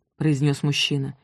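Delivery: ordinary delivery, nothing marked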